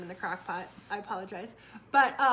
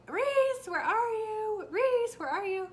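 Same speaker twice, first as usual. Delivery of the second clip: much higher, louder calling of his name; retold scream; 12 semitones higher, 8 dB louder, much slower than usual. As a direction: yell through the house for a missing kid. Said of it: "I'm screaming".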